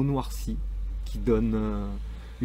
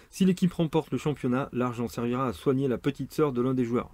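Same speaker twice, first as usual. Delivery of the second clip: blurb read; 3 semitones higher than usual. Shown as a demonstration. Presenter pitching a football book, punchy blurb reading. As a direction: proclaim it like a sports slogan. Reads back cover aloud.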